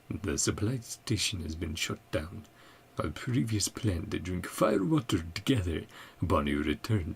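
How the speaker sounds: lightly attempted Russian accent; put-on Snezhnayan accent. Player reading a farewell letter to an old friend, light Russian accent. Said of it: "did not need to do the accent".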